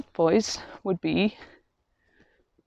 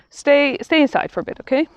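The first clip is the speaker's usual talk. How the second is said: higher, friendly request with no anger; lifted pitch, mild coaxing okay; gentle boundary-setting; 7 semitones higher than usual. Acted. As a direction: kindly tell them to stay put. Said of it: "not in a very, like, in an angry way".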